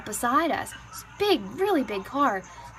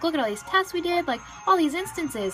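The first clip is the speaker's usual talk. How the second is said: higher-pitched, emphatic objection; acted protest, pitch raised; retold insistence; 5 semitones higher than usual. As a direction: argue the case as the medics, point by point. EMTs retold arguing with doctor.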